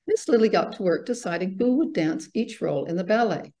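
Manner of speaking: animated storybook reading with lifted key words; story narration. A narrator's reading. Author reads her ballet story to festival audience, story narration. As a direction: read it to children, measured and expressive.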